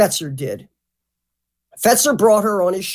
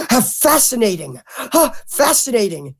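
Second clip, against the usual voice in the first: enraptured interviewer imitation; 3 semitones higher than usual. Mimicking a host in love with the idea, enraptured. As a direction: sigh the word as if in love with the idea. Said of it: "he kept using that word".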